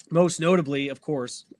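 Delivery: talking through hiccups; words broken by hiccups. Real, not acted. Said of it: "like, the hiccups here".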